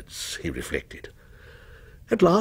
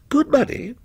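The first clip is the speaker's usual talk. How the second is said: scornful; 12 semitones higher than usual. A narrator's reading. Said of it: "repeated the stranger scornfully".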